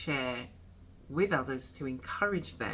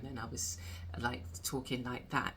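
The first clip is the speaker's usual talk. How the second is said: deeper voice; 7 dB quieter than usual. Shown as a demonstration. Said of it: "my voice started to get deeper".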